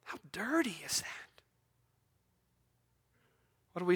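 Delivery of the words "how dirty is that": near-whispered rhetorical question; soft, breath-only aside; hushed disbelief. Real, not acted. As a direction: drop to a whisper for effect. Preacher's hushed aside on the manger.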